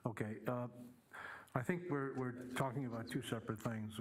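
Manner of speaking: muffled behind a mask; through a face mask. Real, not acted. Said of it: "with my mask on".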